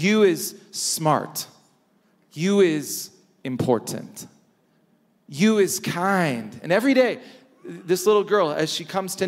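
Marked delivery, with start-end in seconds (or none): 0.0-6.6 tender nanny's words. Retold or imitated. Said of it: "She says".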